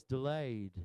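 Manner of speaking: low Southern-accented demo. Shown as a demonstration. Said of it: "say it with a southern voice".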